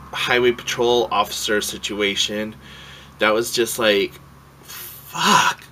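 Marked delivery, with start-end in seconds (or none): 4.6-5.6 loud, high outburst; fed-up expletive, pitched up; exasperated curse. Real, not acted. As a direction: let the swear word burst out. Exasperation at the piled-up bad day.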